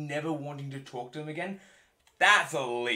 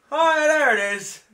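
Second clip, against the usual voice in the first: much higher, louder, slow hammed-up discovery; old father-in-law; 13 semitones higher, 14 dB louder, slower than usual. Father-in-law finding proof, hammed-up and slow. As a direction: drag it out like a delighted old man. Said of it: "He just shoves whole face in there".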